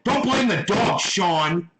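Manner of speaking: real angry telling-off; pissed off. Real, not acted. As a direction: lay into him, exasperated. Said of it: "you just pissed me the fuck off".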